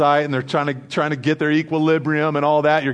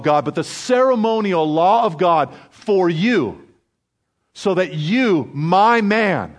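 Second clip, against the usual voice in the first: higher, emphatic voice of God declaring love; earnest declaration; 5 semitones higher, 3 dB louder than usual. Acted. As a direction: plead it slowly and fervently to David. Acted speech of God to David.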